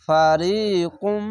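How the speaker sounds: ফারিকুম slowly with the final ম hummed; nasal ghunnah. Shown as a demonstration. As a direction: recite ফারিকুম, humming the ম. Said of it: "এখানে ইদগামে বা গুন্না". (গুন্নাসহ ফারিকুম)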